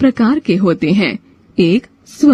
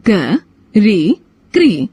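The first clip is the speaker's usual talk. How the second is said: slow syllable blending; slower than usual. Shown as a demonstration. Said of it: "री की मात्रा".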